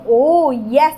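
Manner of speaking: mock exclamation, drawn-out "oh"; demonstrated shock exclamation. Shown as a demonstration. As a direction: show a sample exclamation of shock. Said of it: "कोई shock वाली feeling होती है". (हैरानी जताने का हल्का नमूना)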